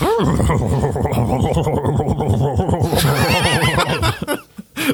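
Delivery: long burbling motor sound; imitated engine noise. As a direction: rev and sputter like a car taking off. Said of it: "And she's like".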